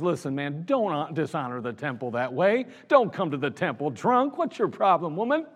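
low, restrained mock reprimand; lightly acted rebuke, lifting on the last word; priest's scolding. Priest confronting a woman he thinks drunk, scolding. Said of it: "Eli even goes to her and says".

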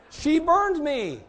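slow, high, loud wail of mock hurt; stretched-out mock lament. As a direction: drag it out, still amazed. Retelling getting burned.

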